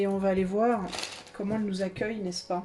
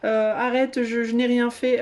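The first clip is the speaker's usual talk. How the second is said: mock pleading France. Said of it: "elle se dit".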